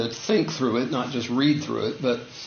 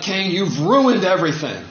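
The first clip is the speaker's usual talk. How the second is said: acting out an exasperated God, louder; a put-on angry scolding; mock angry; 4 semitones higher, 5 dB louder than usual. God blaming Cain for ruining things, mock angry. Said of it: "he's not so angry with Cain that".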